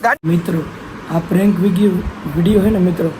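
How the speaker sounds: loud, low announcement to viewers; loud vlogger outro; loud sign-off. Real, not acted. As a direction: tell the audience it backfired.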